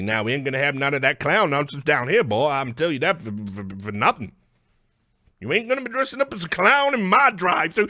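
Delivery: a Southern lawman laying down the rules; comic Southern sheriff voice, shouting by the end; mock Southern accent. Voicing a Tennessee official.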